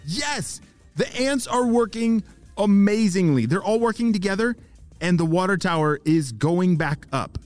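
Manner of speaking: high, thrilled progress report; excited report. Acted. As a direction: share the success in a high, eager voice. Ava reports success by radio.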